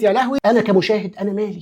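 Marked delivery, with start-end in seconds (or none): 0.0-0.4 mother's gasp. Retold or imitated. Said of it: "فأمي دخلت شافت الموضوع قالت".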